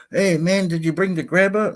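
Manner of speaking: a hint of an eager diving pal; buddy voice. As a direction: call out to a partner, a touch mock. Acting out a dumpster buddy.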